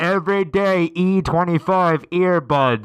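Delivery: slow careful repeat of the product name; slow, clear restatement. Acted. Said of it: "what was that?".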